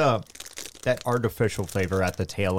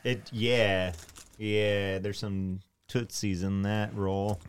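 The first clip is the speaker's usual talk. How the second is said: chewing while talking; 5 dB quieter, much slower than usual. Real, not acted. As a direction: mouth full of cake. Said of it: "Sorry, I'm chewing into the mic".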